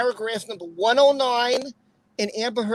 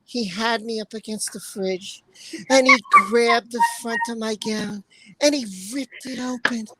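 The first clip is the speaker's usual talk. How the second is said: Amber; 2 semitones lower than usual. Acted. Streamer rereads the statement for the chat, lightly impersonated. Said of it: "Let me try doing it in an Amber voice".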